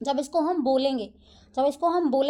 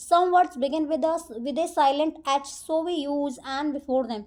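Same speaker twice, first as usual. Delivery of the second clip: reads the rule out word by word, very slow; slow rule reading; 3 dB louder, much slower than usual. Acted. Teacher reading the rule to her students, slow dictation. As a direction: dictate it slowly to the class.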